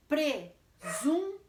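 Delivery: "presunto" slow, in separate syllables. Shown as a demonstration. Teacher models how to divide it, "presunto" syllable by syllable. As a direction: punch out "presunto" one syllable at a time. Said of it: "Do jeito que eu estou falando".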